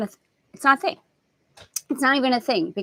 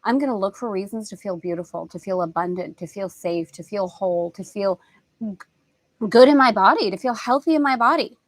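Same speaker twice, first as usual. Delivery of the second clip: gentle affirmation; 2 semitones lower than usual. Pretend. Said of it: "if we say to ourselves".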